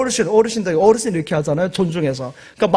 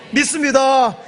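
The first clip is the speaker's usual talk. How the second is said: shouted affirmation; 4 semitones higher, slower than usual. Real, not acted. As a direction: call it out to the congregation. Preacher calling out to congregation.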